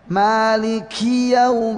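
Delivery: chanted "maliki" with too much breathy hiss on the k; over-hissed kaf. Shown as a demonstration. Teacher shows learners the faulty excessive hiss, over-hissed recitation. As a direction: draw out "maliki yaum" in recitation, hissing the k. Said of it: "Juga desisnya nggak boleh berlebihan".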